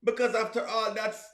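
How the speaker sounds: lightly voiced, hushed Jamaican pleading for another chance; mock-humble apology murmured to the woman; pleading man. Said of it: "And I go there and say".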